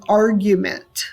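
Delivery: "argument" with the weight on "ar"; stress on first syllable. Shown as a demonstration. Teacher gives a dactyl example, "argument" stressed on "ar". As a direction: lean on "ar", lighter on "gu-ment" in "argument". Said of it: "the R is stressed".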